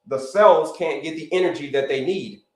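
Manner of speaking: "energy" given extra weight within the sentence; stress on energy. Real, not acted. Coach explaining tiredness to viewers, stress on "energy". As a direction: lean on the word "energy". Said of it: "I'm gonna keep emphasizing the word energy".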